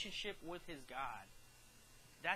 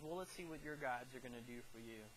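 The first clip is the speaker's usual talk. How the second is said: mock taunt; 5 semitones lower, 7 dB quieter, faster than usual. King mocking condemned men.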